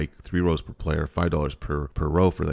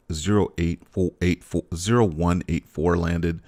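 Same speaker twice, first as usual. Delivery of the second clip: tripping over the digits, then restarting; real stutter over a string of digits; stumbling over the number; slower than usual. Real, not acted. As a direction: stumble on the eight and correct yourself. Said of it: "stuttering on that".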